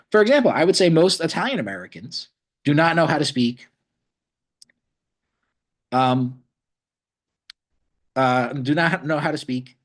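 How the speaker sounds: choking on something mid-sentence. Real, not acted. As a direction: speak while choking on something. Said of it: "I was choking on something".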